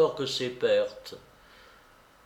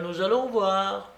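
put-on raised, imperious old-lady voice; commanding babouchka; 6 semitones higher than usual. A narrator's reading. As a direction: order it with a high-pitched firmness. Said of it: "m'ordonna-t-elle". (babouchka autoritaire)

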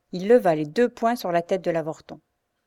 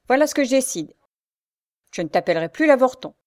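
mock grand; 6 semitones higher, 6 dB louder, faster than usual. A narrator's reading. Bully announces decision.

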